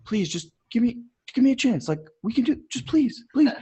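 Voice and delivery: soft, high, timid pleading; whispering. Acted. Coach plays the angel voice asking for a chance, whispering. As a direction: beg quietly like a tiny inner angel. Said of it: "her voice is gonna be whispering".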